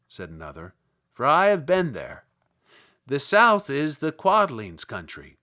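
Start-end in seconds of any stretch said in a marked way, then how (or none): 1.1-5.4 louder little Munchkin voice. Acted. Munchkin tells Dorothy about the shoes, louder. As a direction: speak up like an eager small villager.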